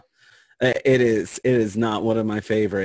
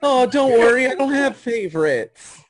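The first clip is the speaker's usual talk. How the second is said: higher, sing-song reassurance; soothing parent voice; 13 semitones higher, 5 dB louder than usual. Retold or imitated. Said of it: "That's what you tell a child".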